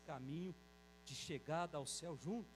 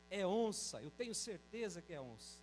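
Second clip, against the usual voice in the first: alarmed exclamation. Retold or imitated. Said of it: "ele disse".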